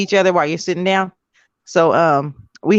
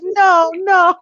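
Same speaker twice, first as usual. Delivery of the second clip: horrified no; 12 semitones higher than usual. Retold or imitated. Guy repeats his protest.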